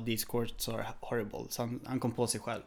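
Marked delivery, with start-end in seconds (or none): 0.1-1.4 calmer, softer retake of the complaint; the same complaint, lightly voiced and softer; corrected complaint. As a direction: catch yourself and say it clean. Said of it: "stoppade han sig själv och sa".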